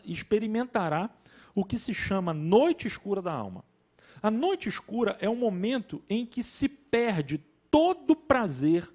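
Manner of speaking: measured reading with deliberate pauses; formal book reading. Acted. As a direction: read the passage out deliberately to listeners. Reads a book passage aloud.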